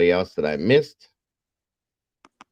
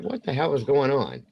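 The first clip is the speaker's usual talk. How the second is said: mildly baffled, slightly raised pitch; retold puzzlement; 5 semitones higher than usual. Dad asks about her bugged-out eyes, mild puzzlement. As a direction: ask it puzzled, without shouting.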